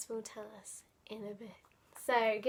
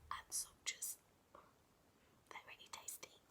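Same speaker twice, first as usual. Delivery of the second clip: hushed relish; 22 dB quieter, faster than usual. Real, not acted.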